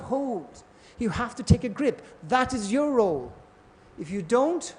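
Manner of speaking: lightly voiced guru laying out the rules; Prabhupada. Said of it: "Prabhupada says".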